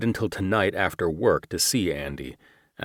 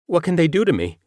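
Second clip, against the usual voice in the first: much higher, louder cracking panic; 12 semitones higher, 7 dB louder, faster than usual. Acted. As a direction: let the voice crack with fear. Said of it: "His voice cracked".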